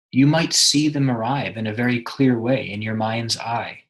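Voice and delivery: measured meditation guide, long pauses between phrases; guided meditation. Acted. Meditation guide helping a listener connect with someone, guided meditation. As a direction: lead them inward, leaving room after each instruction.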